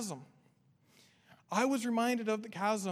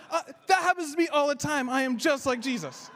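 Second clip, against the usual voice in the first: louder, laughing through the punchline; amused retelling; 5 semitones higher, 6 dB louder than usual. Retold or imitated. Pastor quoting the man who thinks he is like Jesus, amused. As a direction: relish the funny quote. Retelling the man's proud claim.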